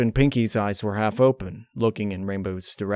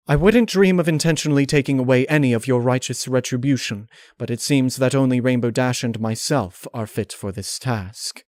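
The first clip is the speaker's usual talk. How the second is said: Rarity's voice; 4 semitones higher, 4 dB louder than usual. Acted. Rarity's voice in story.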